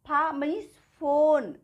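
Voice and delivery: "फोन" begun with an "f" sound and drawn out. Shown as a demonstration. Teacher demonstrating the PH sound, slow stretched फोन. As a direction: slowly sound out फा, then फोन. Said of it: "फा से pronounce".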